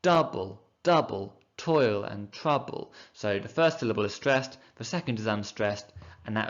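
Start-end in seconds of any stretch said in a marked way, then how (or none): 0.0-2.9 slow chant leaning on Double and toil; teacher reciting the witches' chant to show the beat; rhythmic recitation. Shown as a demonstration. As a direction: stress the first syllable of each pair. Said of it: "speak in trochaic tetrameter".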